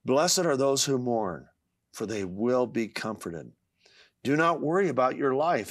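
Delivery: measured, earnest recitation; scripture recitation. Acted. Reading comfort to those who mourn, measured scripture recitation. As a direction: recite a promise of comfort, phrase by phrase.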